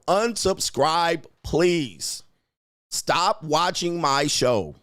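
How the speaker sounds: slow, drawn-out mocking commands; taunting dismissal. Real, not acted. Streamer slowly taunts the hate watchers to leave his show. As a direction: spell out each order slowly to rub it in.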